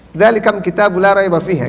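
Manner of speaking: Zalikam said with mim instead of lam; Tamim dialect reading. Shown as a demonstration. Teacher reads full verse in Tamim style, Zalikam. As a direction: read Zalikam Kitabu with the m sound. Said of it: "lamnya ganti jadi mim".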